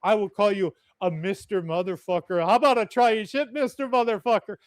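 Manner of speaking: foreign priest cussing. Retold or imitated. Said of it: "He goes".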